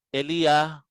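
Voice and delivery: "Elia" as eh-lee-YAH, with a y sound; Hebrew pronunciation. Shown as a demonstration. Teacher shows the Hebrew form of Elijah, "Elia" said eh-lee-YAH. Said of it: "ang Elijah sa Hebrew ay ganito".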